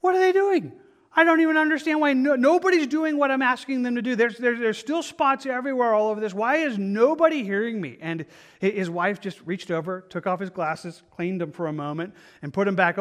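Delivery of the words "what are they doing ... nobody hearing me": imitated shouting rant, much higher and louder; hammed-up exasperated yell at the washers, winding down by the end; even more furious. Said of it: "he was even more furious".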